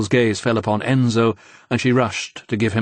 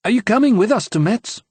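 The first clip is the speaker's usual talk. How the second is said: eager; 12 semitones higher, 4 dB louder than usual. A narrator's reading. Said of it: "Sophie asked eagerly".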